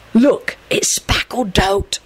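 slow stage whisper; voiceless, drawn-out whisper; hissed whisper. A narrator's reading. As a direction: hiss it to a friend in a whisper. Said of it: "Sirius hissed to Lupin".

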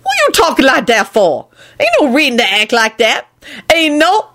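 high-pitched scolding woman. A narrator's reading. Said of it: "Lucretia scolded".

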